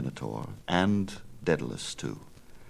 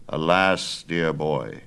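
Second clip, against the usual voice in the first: put-on a louder, firm old craftsman; old father refuses his son, louder and firm; old Daedalus; 3 dB louder, slower than usual. Father answers his son, firm old man.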